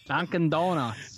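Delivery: put-on northern accent. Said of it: "Northerners with your weird accents".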